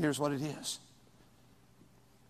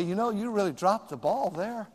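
gentle correction; 5 dB quieter than usual. Retold or imitated. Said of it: "I could talk to them and say".

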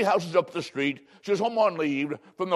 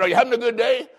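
cheery greeting; 6 semitones higher, 4 dB louder, faster than usual. Retold or imitated. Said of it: "I said".

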